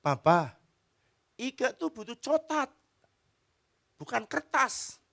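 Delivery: put-on high little-girl voice; high childish protest; little daughter's voice. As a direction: complain like a small child who wants chocolate, not paper. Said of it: "Lalu dia bilang gini".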